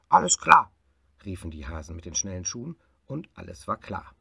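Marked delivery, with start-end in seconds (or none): 0.1-0.7 high, loud shouted answer; eager hares shouting back; loud chorus reply. Acted. Hares shout agreement to their boss, loudly.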